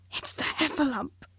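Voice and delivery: a small worried Piglet thought; nervous Piglet. A narrator's reading. Piglet fearing the Heffalump, mildly nervous squeak. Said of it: "thought Piglet nervously".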